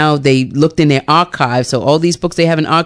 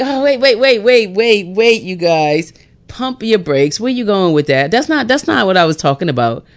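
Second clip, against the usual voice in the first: imitating Jesus; 3 semitones higher than usual. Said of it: "I just imagine Jesus talking to the disciples".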